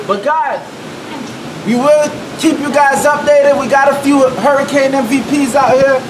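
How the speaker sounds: mock news reporter. Mock reporter in storm wind.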